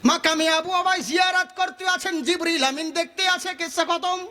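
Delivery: quick shortcut version. Shown as a demonstration. Preacher proving it ends in ten seconds, brisk recital. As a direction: rattle the verse off without lingering. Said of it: "শর্টকাটে একটা কথা বলে দিই".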